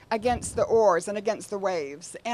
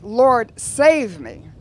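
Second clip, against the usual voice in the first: louder cry of Lord save me; 7 dB louder, much slower than usual. Retold or imitated. Sinking Peter cries out to Jesus, a louder retold plea. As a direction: call for help as if sinking. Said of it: "he cries out".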